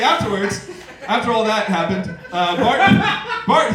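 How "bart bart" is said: mock yell. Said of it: "he yelled at the window".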